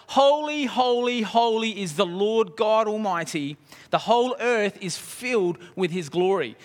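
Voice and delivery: seraphim calling out. Acted. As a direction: call out each holy with awe. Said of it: "they were calling to one another".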